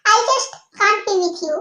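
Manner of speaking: slow, drawn-out exasperation; fed up. Acted. To his roommate, slow and exasperated. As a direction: stretch the words out, sick of her.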